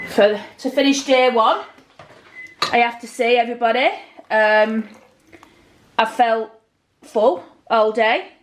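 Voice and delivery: Australian uptalk, rising at the ends; accidental Australian lilt. Real, not acted. Australian lilt while wrapping up day one. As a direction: slips into an Australian rise without meaning to. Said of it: "I don't know why I'm talking like an Australian".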